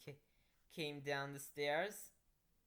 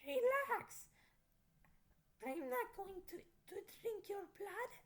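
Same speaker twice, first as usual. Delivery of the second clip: put-on Transylvanian accent. Vampire girl calms the narrator in a Transylvanian accent. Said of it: "she said in a Transylvanian accent".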